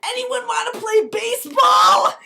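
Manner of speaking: high, loud, slow squeaky shout; a high, loud, drawn-out toy call; pacifier voice. Acted. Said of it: "the pacifier goes".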